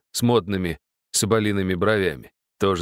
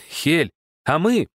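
высоко и медленно, жалобно тянет; обиженно тянет вопрос; ноюще теребя; 9 semitones higher, slower than usual. Acted. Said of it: "затеребила её клоунесса". (клоунесса теребит Хель, медленно и высоко)

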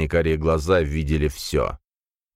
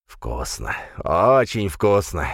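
purring; slower than usual. A narrator's reading. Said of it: "промурлыкала тьма".

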